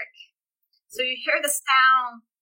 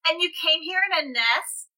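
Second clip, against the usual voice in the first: put-on child voice; 5 semitones higher than usual. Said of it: "sounds like a child almost".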